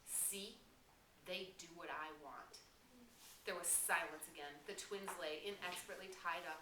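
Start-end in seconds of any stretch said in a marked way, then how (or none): 0.1-2.6 through gritted teeth. Acted. Jack gloating at Ralph through his teeth. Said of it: "spoke between his teeth".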